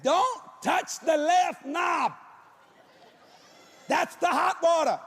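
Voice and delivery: slow hollered warning through the floor; hollering. Retold or imitated. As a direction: holler each word slowly up through the floor. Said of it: "I'm hollering this through the floor".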